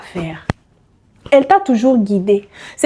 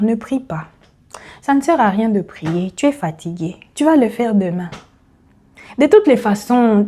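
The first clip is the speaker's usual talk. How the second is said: tempting inner voice. Retold or imitated. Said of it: "La petite voix qui vient te dire". (voix tentatrice douce, plus basse)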